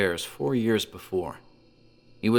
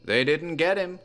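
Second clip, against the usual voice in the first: muttered; 9 semitones higher than usual. A narrator's reading. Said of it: "Wilbur muttered".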